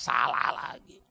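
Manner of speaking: whispered aside. Shown as a demonstration.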